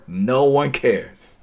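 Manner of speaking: slow, dry dismissal; nobody cares, said slow and dry; deadpan. Real, not acted. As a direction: let it drop flatly, slowly. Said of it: "deadpan dismissal".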